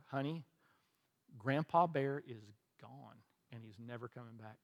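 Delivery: retold fatherly bad news, hushed at the close; gently breaking bad news.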